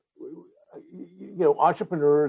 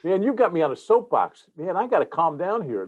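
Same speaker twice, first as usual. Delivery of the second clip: wound up and higher, over-caffeinated; buzzing on coffee, can't calm down; too much caffeine; 5 semitones higher than usual. Real, not acted. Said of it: "coffee's kicked in".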